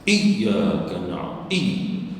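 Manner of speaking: slow Iyyaka na'budu, first syllable jabbed; wrong, too-heavy stress on Iyyaka; over-pressed shaddah. Shown as a demonstration. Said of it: "Jangan dibaca begitu".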